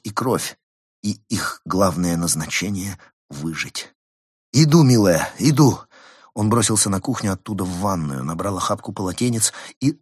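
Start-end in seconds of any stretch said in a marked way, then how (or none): 4.5-5.8 calling out. Acted. Husband runs to his wife.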